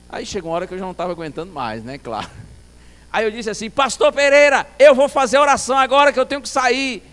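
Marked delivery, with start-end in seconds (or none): 3.7-7.0 high, loud retold yell; shouting. Visitor needing to leave tells deaf pastor, loud shout. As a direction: shout the announcement to a deaf man. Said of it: "realmente no grito".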